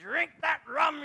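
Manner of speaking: high, loud rerun of the shouted warning; mock shout. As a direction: call it out again with a laugh after.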